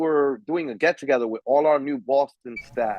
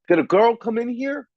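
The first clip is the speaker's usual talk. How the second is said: raised, louder quote of a brusque worker; imitating the union worker; 8 semitones higher, 4 dB louder than usual. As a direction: play the grunt asking loudly, pitched up. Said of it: "He's like".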